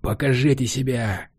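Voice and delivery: defiant shout into the fog. A narrator's reading. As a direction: yell a challenge. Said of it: "выкрикнул мужчина". (вызывающий выкрик)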